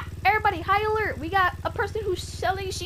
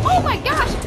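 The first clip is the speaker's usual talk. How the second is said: surprised; 11 semitones higher, 7 dB louder than usual. Acted. Sees the chicken pox boy.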